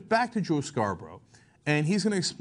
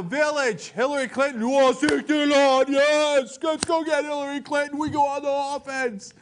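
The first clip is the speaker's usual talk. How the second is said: Sarah Palin impression; 7 semitones higher, 4 dB louder than usual. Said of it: "a voice that is not Sarah Palin's".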